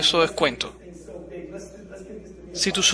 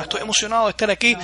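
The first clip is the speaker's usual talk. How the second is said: excited; 5 semitones higher, faster than usual. Retold or imitated. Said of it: "yo vengo bien emocionado".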